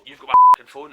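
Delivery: mild mock screaming accusation; retold angry scream. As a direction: imitate an angry accuser, not at full force. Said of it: "I mean really angry, like, foaming at the mouth".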